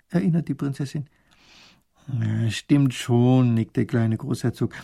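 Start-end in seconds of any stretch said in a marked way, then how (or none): 2.1-3.5 slow, drawn-out concession; reluctant admission. Acted. Grand duke admitting he was keen at first, reluctant.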